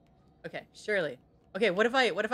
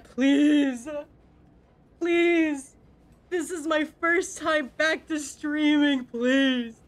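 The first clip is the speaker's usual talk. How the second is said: pleading; 3 semitones higher, 3 dB louder, slower than usual. Real, not acted. Begging chat not to clip.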